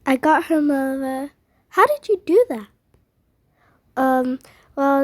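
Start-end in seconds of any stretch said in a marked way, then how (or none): 1.7-2.7 high, loud amazement; amazed. Acted. Kid amazed the sister was rescued, high and loud. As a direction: burst out in disbelief.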